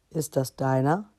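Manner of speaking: a hint of a rough, well-deep dragon. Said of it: "fragte eine raue, brunnentiefe Stimme". (leicht angedeutete raue Drachenstimme)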